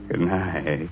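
very slow, drawn-out sinister farewell; sinister host. Acted. Horror host bidding listeners goodnight, slow and sinister. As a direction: stretch it out and leave them uneasy.

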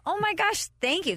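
squealed high, delighted thanks; thrilled thanks. Retold or imitated. Host thanking the fan who recognized her, high and gushing. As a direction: gush it up high like a flattered fan.

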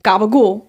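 Gabagool said "gah-buh-GOOL", New York Italian. Shown as a demonstration. Listing how they say things, Gabagool. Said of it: "just how we say shit".

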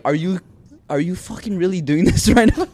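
high, loud, laughing through it; cracking up at your sister; laughing disbelief. Retold or imitated. Mocking his sister reading with preacher, laughing.

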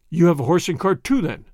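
curt demanding question; peremptory. Acted. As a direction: snap the question out. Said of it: "asked Chauvelin peremptorily".

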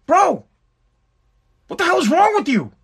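pitched high in mock disbelief; mock exasperation. Father replies to his son's excuse in mock exasperation. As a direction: throw your hands up at the kid. Father scolds son in story.

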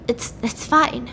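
lightly acted holding back tears; hesitant, understated tearful reassurance; tearful, imitated. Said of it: "and he's crying, obviously".

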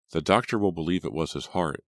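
usual speaking voice

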